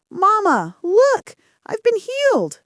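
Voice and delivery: high, excited cry of joy; elated, high-pitched outburst; joyful exclamation. A narrator's reading. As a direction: call out high, overjoyed at being healed. Healed girl runs to share joy.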